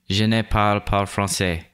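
"Je ne parle pas français" with a clumsy American French accent; an English speaker's badly attempted French accent; terrible French accent. Shown as a demonstration. Recording the French voiceover for the tutorial, clumsy French accent. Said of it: "terrible, terrible French accent".

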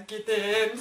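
"gidin" with a long stretched last syllable; drawn-out plea. Retold or imitated. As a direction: drag out the end of "gidin", imploring them. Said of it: "falan yapıyorum böyle". ("gidin" sözünü uzata uzata söyle)

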